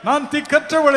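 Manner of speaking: preacher voicing a desperate plea; pleading lament. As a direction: cry out as a helpless sinner. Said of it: "என்று புலம்புவீர்களா?".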